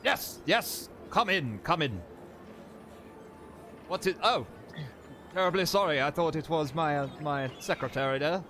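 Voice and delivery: flustered doctor. Acted. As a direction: fluster and apologise in a high fussy voice.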